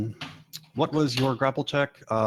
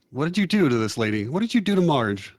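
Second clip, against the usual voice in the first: accusing, climbing higher on the repeat; accusing question; 4 semitones higher, 3 dB louder than usual. Acted. Robinson Red looking at Corbier about Marge, accusing. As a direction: press the suspect for an answer.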